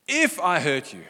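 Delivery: defensive conditional apology; mock apology leaning on "If"; non-apology. Shown as a demonstration. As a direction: punch the IF, holding back real regret. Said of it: "That is not an apology".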